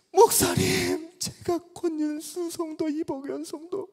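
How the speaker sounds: high and loud, slowly announcing who he is; eager announcement. Retold or imitated. Young man eagerly introducing himself to the old pastor. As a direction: loudly tell the pastor whose son you are. Preacher acts his own past self.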